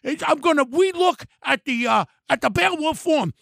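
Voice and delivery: mocking lisp. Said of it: "your teeth getting away a lot".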